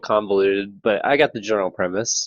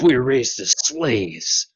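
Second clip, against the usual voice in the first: Snake voice; 2 semitones higher, slower than usual. Acted. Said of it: "snake boss, man".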